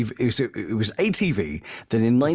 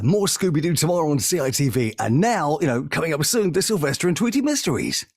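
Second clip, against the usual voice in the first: higher-pitched TV link voice; continuity announcer; 6 semitones higher than usual. Retold or imitated. Announcer linking one cartoon to the next, upbeat announcer delivery. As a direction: read it like a children's TV continuity announcer. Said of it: "as the continuity announcer for this thing".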